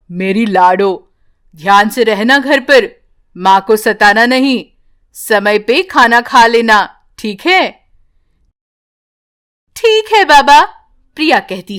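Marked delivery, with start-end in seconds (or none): 0.1-7.9 father tenderly instructing his daughter before a trip; father's gentle voice. Acted. 9.7-10.6 put-on higher, brighter child agreeing; sweetly obey your father; little girl's voice. Daughter answers father.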